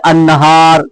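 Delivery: अन्नहार with the lam silent and the nun held double, an-nahar; doubled nun. Shown as a demonstration. Teacher reading an example word to students, nun doubled. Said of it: "अलिफ और नून पढ़ा जा रहा है".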